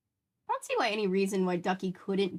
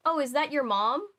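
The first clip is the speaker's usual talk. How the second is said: higher and louder, mock clerk asking; mock surprised clerk; 7 semitones higher, 6 dB louder than usual. Ticket clerk asking if her friend is her mom, mock surprised. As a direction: play the clueless ticket guy, pitched up. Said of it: "the guy looks at me and goes".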